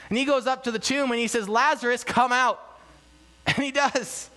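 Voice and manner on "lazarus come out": raised, higher-pitched call of command. Retold or imitated. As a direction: summon him out of the tomb, mildly dramatized. Jesus calling Lazarus from tomb.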